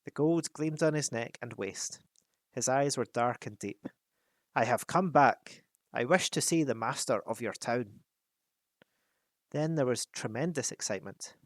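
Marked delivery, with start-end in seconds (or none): 4.5-8.0 a measured, commanding dwarf; dwarf king voice. Acted. Thorin addresses the guards.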